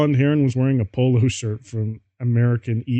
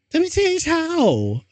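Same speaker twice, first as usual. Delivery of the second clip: screamed. A narrator's reading. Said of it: "I screamed".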